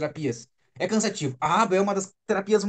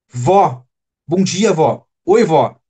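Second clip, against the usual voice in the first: little granddaughter calling; 12 dB louder, much slower than usual. Retold or imitated. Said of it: "Quando a tua neta falar".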